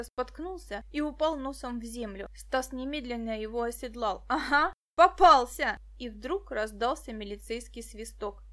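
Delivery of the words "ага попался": loud, slow triumphant shout; boy shouting in triumph over the caught thief. A narrator's reading. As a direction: gloat as you pin him.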